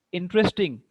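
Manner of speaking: INteresting, opening syllable punched; Interesting with strong stress on In. Shown as a demonstration. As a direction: hit the first syllable of Interesting. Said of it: "stress is on in".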